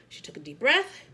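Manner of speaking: a breathy whispered line. A narrator's reading. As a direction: let the breath into the words. Breath in the story.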